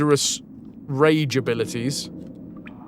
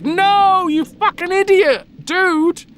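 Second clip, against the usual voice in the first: furious druid; 10 semitones higher than usual. Retold or imitated. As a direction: rant at the boy like an enraged old druid. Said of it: "the druid turns up and is like".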